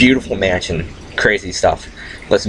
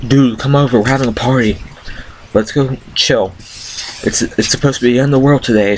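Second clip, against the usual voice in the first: imitating an excited stoner friend; high excited invite; 5 semitones higher than usual. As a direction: call them over all pumped up. Benny voiced inviting to party.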